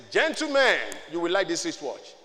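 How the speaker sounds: a touch of the showman; advertising pitch. Retold or imitated. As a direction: lightly imitate an advertiser presenting goods. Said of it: "As if I was advertising it".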